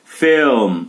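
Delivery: "Film" said in a single syllable, no vowel added after the m; don't say filme, just "Film"; one-syllable film. Shown as a demonstration. Teacher answering how to read the word, "Film" in one syllable. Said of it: "Como é que eu leio filme?".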